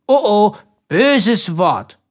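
put-on childlike chiding. A narrator's reading. Simpel catching his brother swearing, childlike sing-song. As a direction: scold playfully like a small child.

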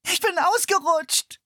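put-on slow, high girl's whine; whining.

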